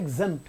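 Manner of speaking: exempt with a brief open E; exempt, middle vowel not stretched; short vowel. Shown as a demonstration. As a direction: keep the 'zemp' of exempt short. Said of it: "तो खींच नहीं रहा".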